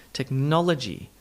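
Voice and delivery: technology as tek-NOL-uh-jee; full NOL, reduced uh in technology; schwa after stress. Shown as a demonstration. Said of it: "add in the all-important schwa".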